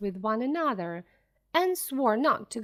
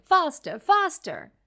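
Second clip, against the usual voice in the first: loud, high urging cry; frantic shouting; 6 semitones higher, 6 dB louder than usual. A narrator's reading. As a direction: shout the drivers on, hopping about. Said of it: "hopping about and shouting".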